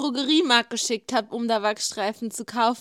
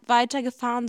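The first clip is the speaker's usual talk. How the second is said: ordinary delivery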